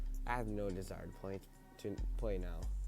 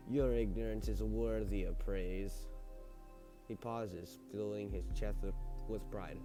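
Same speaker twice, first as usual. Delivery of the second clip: creepy butler. Acted. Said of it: "maybe I should talk in the butler voice now".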